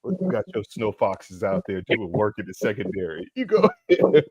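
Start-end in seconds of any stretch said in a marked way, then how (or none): 3.4-4.2 high, squeaky teasing go-ahead; mock encouragement. Real, not acted. Teasing his co-host about the white DBs, high mock cheer. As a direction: egg him on in a mocking high voice.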